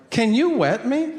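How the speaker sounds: high-pitched, plaintive request; pleading dad. Acted. Dad to son hogging the shower, high plea. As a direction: ask in a small high voice.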